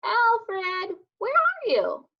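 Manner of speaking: high call across the yard. A narrator's reading. Rex calls for hidden Alfred, high and searching. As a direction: call out to find your friend.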